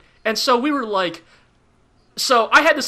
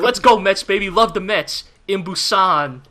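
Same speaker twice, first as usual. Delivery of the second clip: bad New York accent; 2 semitones lower than usual. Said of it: "extremely bad New York accents".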